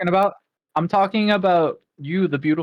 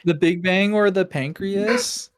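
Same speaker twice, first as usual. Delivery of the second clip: laughing; 3 semitones higher, slower than usual. Real, not acted. Mocking the misheard question, laughing.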